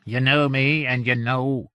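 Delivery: emphatic Yorkshireman laying down the law; firm, deliberate Yorkshire warning; Yorkshire accent. A narrator's reading. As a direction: state it as fact in a Yorkshire accent. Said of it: "he said in a Yorkshire accent".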